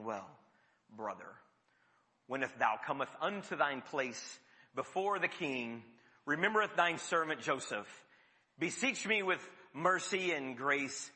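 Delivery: lightly hammed-up holy solemnity; sanctimonious reading. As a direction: archaic churchy tone, gently mocked. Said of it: "we read the Bible very sanctimoniously".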